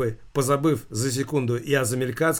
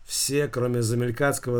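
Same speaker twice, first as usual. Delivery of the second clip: plain reading voice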